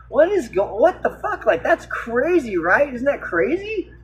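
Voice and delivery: high-pitched incredulous outburst; can't believe what's happening, voice jumping up; stunned disbelief. Retold or imitated. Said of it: "and I'm like".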